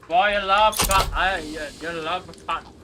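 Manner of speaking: hammy, unconvincing Southern voice; attempted Southern accent. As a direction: have a clumsy go at sounding Southern. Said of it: "I can't do it".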